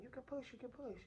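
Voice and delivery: high, light mock urging; imitated urging. Staff telling labouring mother to push, urging.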